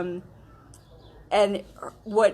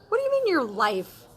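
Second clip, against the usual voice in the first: shocked king; 8 semitones higher, 4 dB louder than usual. Acted. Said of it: "the king looks at the queen and says".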